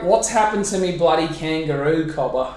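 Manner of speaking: a broad Australian accent, lightly put on. Shown as a demonstration. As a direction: say it like an Aussie bloke. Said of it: "you can do an Australian accent".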